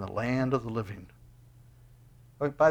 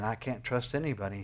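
softer, hushed admission of despair; quiet despair; 2 semitones lower, 5 dB quieter than usual. Retold or imitated. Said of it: "And you're saying".

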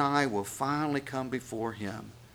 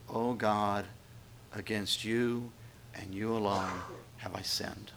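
soft confession to God, fading to a whisper; hushed penitent prayer; 3 semitones lower, 6 dB quieter than usual. Acted. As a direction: pray it quietly, ending almost unvoiced. Penitent prayer voiced by preacher.

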